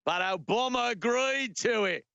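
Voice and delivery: protesting mock Aussie; broad comic Australian vowels; Australian accent. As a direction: plead the point in a put-on Australian accent. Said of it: "And they're like".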